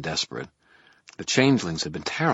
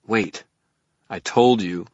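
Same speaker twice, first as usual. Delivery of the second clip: insistent; 4 semitones higher, 9 dB louder, slower than usual. A narrator's reading. Harry insisting, cut off.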